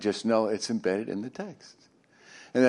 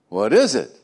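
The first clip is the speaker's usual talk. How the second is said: puzzled Israelites; 8 dB louder than usual. Retold or imitated. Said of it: "The Israelites walked out of their tents and went".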